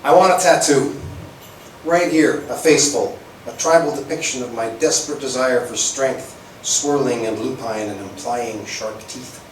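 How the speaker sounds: dramatic spoken word delivery; poem recitation. Acted. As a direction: read it like a slam poem, savoring each image.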